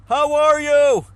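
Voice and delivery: high, blaring game-show-host greeting; booming doctor voice. Retold or imitated. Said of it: "he would always talk like this".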